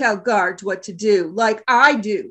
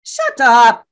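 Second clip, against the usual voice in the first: angry snap; 5 dB louder than usual. Acted. Leader silences Garge.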